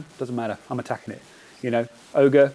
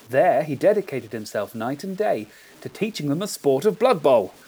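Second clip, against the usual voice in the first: dramatic storyteller reading a legend; lilting, theatrical tale-telling with weighted key phrases; story narration; 2 semitones higher than usual. Acted. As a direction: tell it like a grand old fable. Reads his written story intro aloud.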